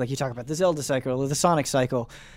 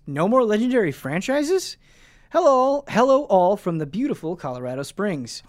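reading an email aloud; 3 semitones higher than usual. Acted. Reads a listener email.

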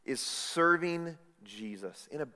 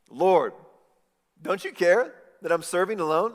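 loud, high, indignant demand; indignant Martha; 5 semitones higher, 9 dB louder than usual. Retold or imitated. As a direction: Martha confronts Jesus in crowded room, loud and indignant. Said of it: "She says to Jesus".

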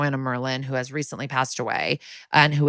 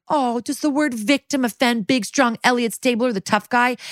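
sarcastic; 8 semitones higher than usual. Retold or imitated. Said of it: "she gets all sarcastic".

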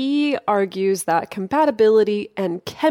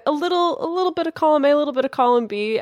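high playful hedge; 8 semitones higher, faster than usual. Real, not acted. Playful hedging answer.

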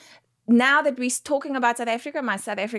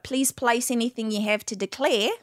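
Australian cabin announcement, slightly raised; Australian accent; 3 semitones higher than usual. Shown as a demonstration. Guest imitating Qantas crew on declarations, Australian accent. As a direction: announce it in twangy Australian English. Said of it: "on Qantas".

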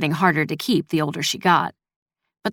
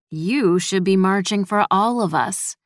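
sarcastic. Acted. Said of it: "just as sarcastic".

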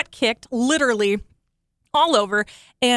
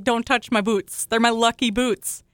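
mock riled-up. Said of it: "I got riled up".

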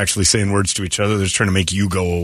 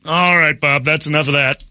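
put-on English accent; 6 semitones higher than usual. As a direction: cut him off in a clipped British voice. English guy cuts him off.

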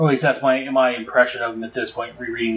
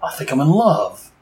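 dopey lovestruck; 3 semitones higher, slower than usual. Retold or imitated. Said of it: "dopey look on his face where he's like".

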